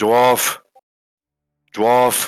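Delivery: put-on acting very drunk. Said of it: "You're drunk".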